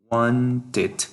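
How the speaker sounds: WANTED in two clear syllables, ending in a distinct "id"; pronunciation demo. Shown as a demonstration. Teacher showing students the past form, WANTED pronounced with a clear "id". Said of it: "Remember the pronunciation".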